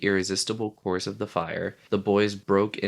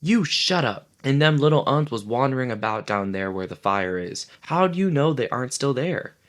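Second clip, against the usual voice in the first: angry; 5 semitones higher, 3 dB louder than usual. Acted. Jack turns on Piggy.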